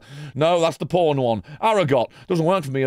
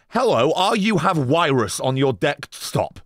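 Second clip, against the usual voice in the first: mocking chat. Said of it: "This is the fucking chat that I read".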